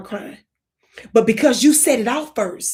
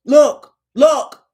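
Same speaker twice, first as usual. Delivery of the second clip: loud sharp look look; calling out; 3 semitones higher, 11 dB louder than usual. Shown as a demonstration. Comedian calling out loud to the audience. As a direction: grab her attention loud. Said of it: "Look, sis".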